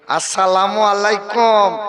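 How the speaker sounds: pious groom greeting. Acted.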